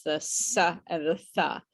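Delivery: "s" and "th" given as bare sounds; contrasted sounds. Shown as a demonstration. Teacher naming sounds Brazilians find hard, demonstrating each. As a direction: sound out "s" against "th". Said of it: "Brazilians have trouble with".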